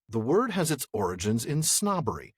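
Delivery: a hint of the scholar's reading manner; measured, lightly imitated academic delivery; Shippy. Host reads the scholar's quote, slipping into his manner. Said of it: "How do I not say that like him?".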